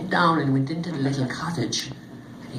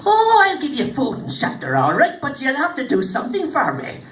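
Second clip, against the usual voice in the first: little man's voice; 8 semitones higher, 5 dB louder than usual. Acted. Little hairy man answers the warriors.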